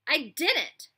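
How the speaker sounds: high, loud mock innocence; mocking denial. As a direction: play innocent. Bully denies.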